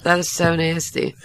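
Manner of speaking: slow, hushed "so nasty"; whispered disgust. Real, not acted. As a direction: breathe it out in disgust. Reacting to fart story.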